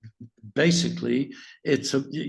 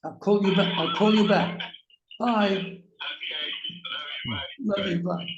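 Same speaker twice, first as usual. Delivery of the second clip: turning away from phone; 3 semitones higher than usual. Real, not acted. Son calls mid-interview.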